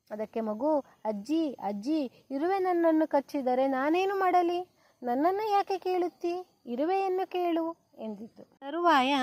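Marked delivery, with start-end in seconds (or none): 1.0-7.9 put-on baby's voice. Crying baby answers grandmother.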